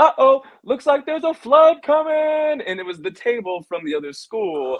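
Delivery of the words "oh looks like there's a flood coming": mock, shrill, high, taunting yell. Retelling kids at another school's lunch table taunting them, as a mocking yell. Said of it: "someone yells like".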